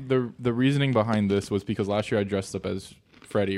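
talking while munching snacks. Real, not acted. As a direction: crunch food between words. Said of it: "Stop munching in the mic".

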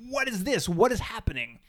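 mock bewildered, pitch rising high; baffled disbelief. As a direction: act confused by a nonsense plot. Baffled reaction retold by viewer.

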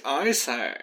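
badly faked posh British; a terrible try at British; British accent. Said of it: "that was terrible British".

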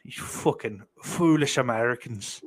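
second go at a badly faked Irish accent; hammy attempt at an Irish accent; botched Irish accent. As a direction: scold in a muddled, would-be Irish accent. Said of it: "certainly not an Irish accent".

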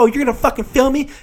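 high-pitched mock outrage; super ghetto woman. Passenger finds out she's filmed, mock ghetto outrage. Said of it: "She was, like, super ghetto".

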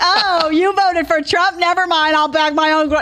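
high, loud, slow scandalised gasp; mock outraged woman. Host mocks the woman at the store, scandalised shriek. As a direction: ham up a shocked elitist. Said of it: "She's not gonna be like".

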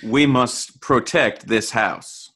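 slow mock commercial slogan; drawn out like a sports ad tagline. Co-host hamming up the Under Armour slogan, slow and mock-serious.

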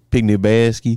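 "basket" with its end softened to "bas-kee"; odd pronunciation. Pretend. Podcaster repeating it for his teasing co-host, odd pronunciation. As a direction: swallow the T in "basket", like "napkin". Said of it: "Why'd you say it like napkin?".

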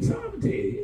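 "sovereignty" said high, set apart from "seventeen"; high-pitched correction on "sovereignty"; careful pronunciation. Shown as a demonstration. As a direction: pronounce "sovereignty" distinctly as its own word. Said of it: "Not seventeen".

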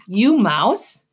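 put-on high small child's question; toddler voice. Boots the toddler asking the rat if he's a mouse. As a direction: ask like a curious little girl.

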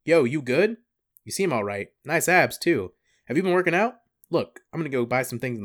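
breezy dude checking on a friend; casual bro Judas. Retold or imitated. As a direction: Judas greeting Jesus, hyped casual bro. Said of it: "Judas arriving late".

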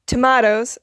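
tomatoes said "tuh-MAH-tohz"; broad-A tomatoes. Retold or imitated. Friend asks for some, tomatoes with broad A. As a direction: say "tomatoes" with an AH in the middle. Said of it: "if you have an accent".

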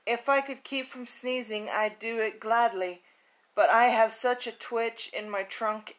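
lively picture-book storytelling voice; reading a story aloud. A narrator's reading. Podcaster reads her childhood book to listeners, storytelling voice. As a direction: read it like a bedtime story for kids.

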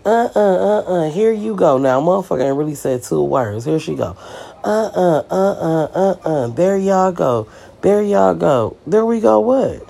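high, sing-song taunt of uh uh uh; mock taunting girl. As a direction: imitate her teasing, rising to a high what. Mocking girl's taunting interjection.

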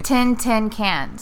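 "Ten tin cans" slow, with "Ten" and "tin" sounding nearly alike; ten tin merger. Shown as a demonstration. Demonstrating her accent's ten and tin to her co-host. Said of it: "try to say ten and ten".

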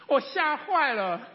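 normal talking voice

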